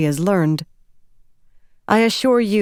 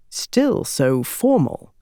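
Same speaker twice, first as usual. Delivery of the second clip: smiling, gentle tease; slower than usual. Acted. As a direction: tease her kindly with a smile. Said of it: "smiling at her".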